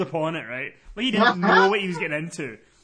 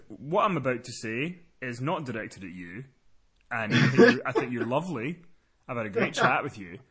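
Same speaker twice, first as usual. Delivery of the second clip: low, held-back preface; calm and low, soothing him first; measured reassurance; 5 semitones lower than usual. Retold or imitated. Caller reassuring the agent before complaining, low and measured.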